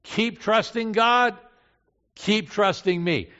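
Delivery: loud, high, slow exhortation; emphatic urging. Acted. Jesus urging his disciples to keep trusting, loud and emphatic.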